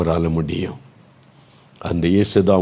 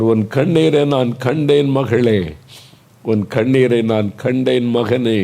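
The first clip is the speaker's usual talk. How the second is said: impassioned preaching; 4 semitones higher than usual. Real, not acted. Preacher to weeping families with sick loved ones, impassioned and rising. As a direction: preach with rising pitch and urgency, list building on list.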